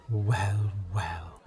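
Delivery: low, unhurried Welsh God; Welsh-accented God taking stock. Acted. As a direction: answer deep down, with a Welsh lilt. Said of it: "God's obviously Welsh".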